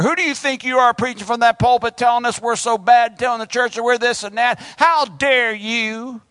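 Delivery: hammed-up offended churchgoer scolding the preacher; indignant congregation. Offended churchgoer scolding the preacher, mock outrage. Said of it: "I can feel the resistance from here".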